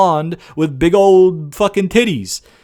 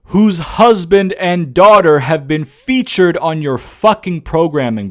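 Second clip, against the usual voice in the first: 1 exasperated rant; 8 dB louder than usual. Real, not acted. Ranting at Vince in disbelief.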